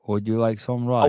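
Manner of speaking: hammed-up Asian accent; caricatured Asian accent. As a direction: put on a mock Asian accent. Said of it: "with an Asian accent".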